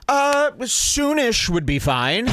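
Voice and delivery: slow, high, laughing echo of the line; laughing mimic. Commentator echoing the comedian through laughter, slow and high. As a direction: drawl it out while laughing. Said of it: "If you put me up soonish".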